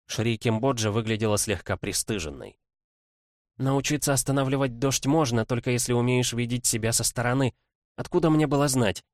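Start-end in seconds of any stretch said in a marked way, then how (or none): 3.6-9.0 brisk lawyerly princess voice, lightly voiced; quick, eager legal rattle; young woman voice. Kimbodzha defends herself.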